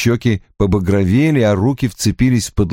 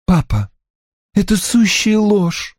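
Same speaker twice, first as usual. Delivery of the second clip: indignant exclamation; 10 semitones higher than usual. A narrator's reading. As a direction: exclaim it, refuting your father. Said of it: "воскликнула Анна". (возмущённое восклицание)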